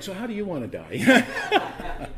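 mock-cheerful home-group question, giggling; teasing a friend over how they want to die, laughing throughout. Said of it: "we'd be like".

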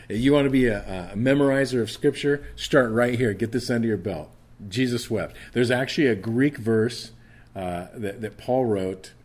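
rally the listeners to memorize; preaching. Acted. Preaching at full force.

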